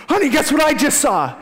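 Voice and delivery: high, loud teasing call to his wife; husband calling his wife, high and giddy. Retold or imitated. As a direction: tease her to guess. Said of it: "I'm like".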